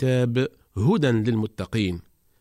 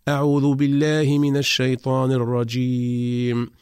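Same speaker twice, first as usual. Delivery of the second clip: slow melodic tajweed chant; Quranic recitation; 2 semitones higher, slower than usual. Shown as a demonstration. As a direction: recite the verse in an even, chanted line. Recites second example verse.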